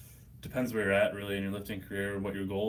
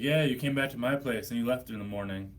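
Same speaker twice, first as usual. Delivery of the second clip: loud, raised retold woman's voice; mock drunk woman; 4 semitones higher, 6 dB louder than usual. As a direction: play the pushy stranger, loud. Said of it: "It's like".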